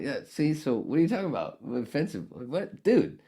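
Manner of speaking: high, loud, fast indignant outburst; indignant protest. Retold or imitated. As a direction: throw it back at them, exasperated. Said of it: "I'm like".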